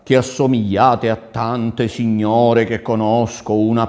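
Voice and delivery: loud, insistent courtly questioning; marvelling prince. Acted. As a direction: list the cities to the lady with projected wonder. (principe stupito, a voce alta)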